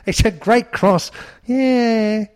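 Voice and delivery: a hammed-up Cockney footballer talking about his cross; a Cockney accent like calling the Grand National. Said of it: "Harry Kane or David Beckham... Cockney vibe".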